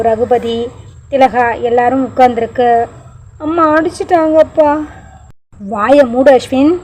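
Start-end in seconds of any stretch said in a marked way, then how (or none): 3.5-4.7 put-on high, tearful little boy's complaint; a child whimpering that mum hit him; sobbing child. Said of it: "Ashwin தேம்பி தேம்பி அழ". 5.7-6.7 a scolding mother's snapped order, lightly voiced; mother telling her son to shut up, half-shouted; mock shout. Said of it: "அபி கத்த".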